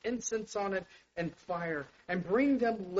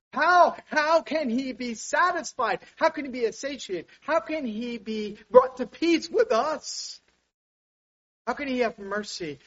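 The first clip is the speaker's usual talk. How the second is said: impassioned plea; 6 semitones higher, 5 dB louder than usual. Real, not acted. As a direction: preach it at full force, begging an answer. Preacher's pleading climax.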